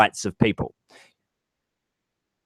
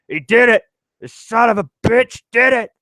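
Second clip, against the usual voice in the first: much higher, louder elated exclamation; President Whitmore; 11 semitones higher, 5 dB louder than usual. Retold or imitated. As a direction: cry it out like an overjoyed president watching the blast. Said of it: "And the president's like".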